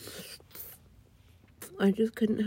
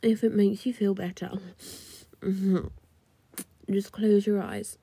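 whispering. Acted.

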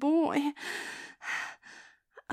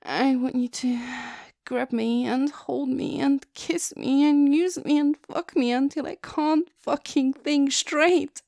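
eager begging; 5 dB louder than usual. Acted. Begging her partner.

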